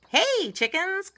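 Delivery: high, loud call with a drawn-out hey. A narrator's reading. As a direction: call across the playground, stretching it out. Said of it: "called the pigs".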